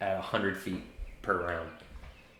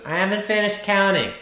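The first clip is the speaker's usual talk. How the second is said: put-on child voice; 12 semitones higher, 4 dB louder than usual. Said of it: "And the child goes".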